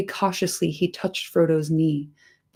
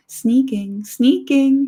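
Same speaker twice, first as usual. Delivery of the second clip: rising, louder creature hiss on the repeat; 8 semitones higher, 4 dB louder, slower than usual. A narrator's reading. Gollum hissing back at Sam's accusation. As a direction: spit the word like a bitter creature. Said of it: "he hissed".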